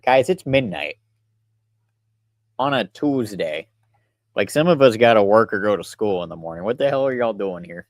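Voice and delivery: fake-annoyed teasing of the chat; sarcastic. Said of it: "I'm just being sarcastic".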